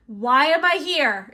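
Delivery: loud, slow mock exasperation; hammed-up annoyed complaint; irritated Invisible Man. Invisible Man stuck with a fangirl, loudly exasperated. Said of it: "he's irritated".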